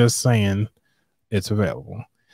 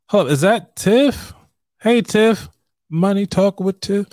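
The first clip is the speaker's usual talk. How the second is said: excited greeting; 8 semitones higher than usual. Real, not acted. Spots friend Tiff joining live.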